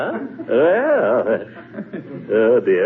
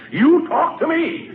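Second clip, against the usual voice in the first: indignant outburst; slower than usual. Acted. Gildersleeve furious at being ignored.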